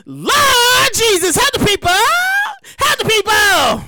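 drawn-out, high cry through laughter; laughing plea. Real, not acted. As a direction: beg the Lord while cracking up.

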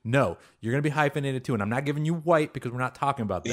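emphatic retort. Retold or imitated. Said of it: "I'm just like".

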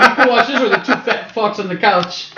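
mocking through laughter; cracking up while quoting; laughing. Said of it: "we're just like".

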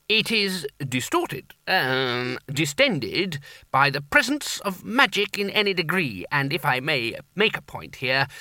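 fussy, hesitant academic; a lecturer in law groping for words; rambling lecturer. Acted. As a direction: fumble through the explanation. Lecturer's long explanation.

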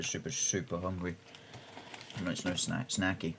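eating while talking; crunching chips. Real, not acted. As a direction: talk through a mouthful of crunchy snack. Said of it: "apologise for the crunching in advance".

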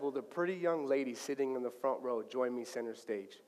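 hushed, low stage invitation; low, soft invitation. Retold or imitated.

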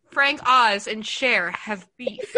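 slow and slightly laughing; slow, laughing repeat. Shown as a demonstration. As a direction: say it slowly, barely holding in laughter. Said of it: "I just wanna repeat that sentence again".

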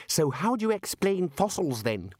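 put-on young man laying a trap; challenging young wizard. A narrator's reading. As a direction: Ponder pressing his point. Ponder challenging the lecturer.

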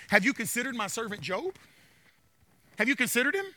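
low, soft question; God speaking. Retold or imitated. God asking Satan about Job, softly. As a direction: let the question hang quietly.

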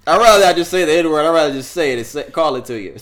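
hammed-up loud parody of his excuse; mocking Rogan. Host mocking Rogan's excuse to his listeners, loud parody. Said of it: "He's saying that".

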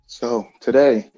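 out of breath after stretching; wind knocked out. Real, not acted. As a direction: talk while still catching breath. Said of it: "Sorry, I'm catching my breath".

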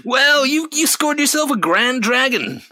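hammed-up game announcer voice; mock announcer. To his friend about the clan simulator, a high mock announcer. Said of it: "You're like".

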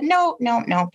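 high, quick-fire dismissal, lightly acted; retold pushback. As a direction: push back as if quoting yourself. Retells pushing back on notion.

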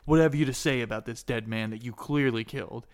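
acted stern interrogation; accusing guard. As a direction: confront the suspect forcefully.

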